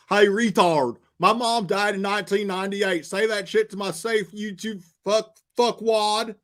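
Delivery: parroting an angry troll, hammed-up; mock hater voice. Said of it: "reading a hater's comment aloud".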